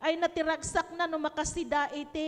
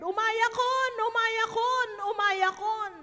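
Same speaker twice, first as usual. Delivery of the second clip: retold crying out; 4 semitones higher, 4 dB louder than usual. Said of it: "crying and saying the word".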